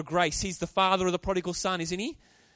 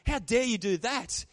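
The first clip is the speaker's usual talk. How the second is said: slow, higher-pitched scolding; mock rebuke; 5 semitones higher, 4 dB louder than usual. Preacher voices Paul rebuking the church, slow indignant rebuke. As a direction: take them to task, slowly and emphatically. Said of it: "he wants to rebuke them and say".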